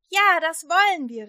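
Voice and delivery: loud, high shout of yes; many people eagerly calling out; crowd calling. A narrator's reading. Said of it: "riefen viele".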